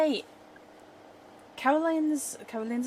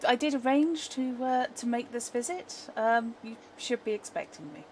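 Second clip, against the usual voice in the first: lightly voiced friendly visitor; a touch of gracious friendliness; pleasant visitor; 2 semitones higher than usual. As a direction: greet her with polite, pleasant interest. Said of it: "pleasant and genuinely interested in people".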